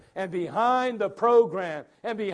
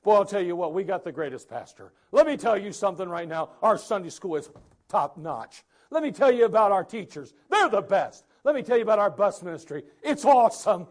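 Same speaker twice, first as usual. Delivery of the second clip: louder, eager boasting; gushing churchgoer; 5 dB louder than usual. Retold or imitated. Churchgoer boasting about the church and pastor, eager. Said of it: "before they were all".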